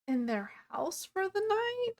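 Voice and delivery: high, breathless whisper; whispered question. Retold or imitated. Travellers nervously wondering where to sleep, whispered. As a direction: whisper it as if afraid of being overheard.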